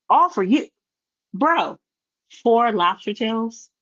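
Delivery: wait, all for YOU?; incredulous. Real, not acted. Outraged echo of his words.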